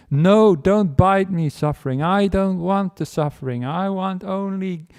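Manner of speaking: beg, a little hammed up, to be spared; you, the postman, pleading with suffering not to bite; mock pleading.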